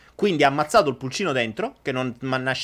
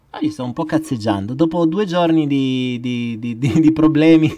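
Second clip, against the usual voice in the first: metallic voice; 8 dB louder than usual. Real, not acted. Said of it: "vi piace la voce metallica?".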